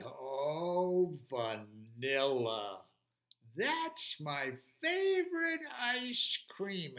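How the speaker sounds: slow, savouring dinosaur voice; delighted T-Rex. Acted. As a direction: draw each word out, relishing the treat. T-Rex delighted at vanilla cone.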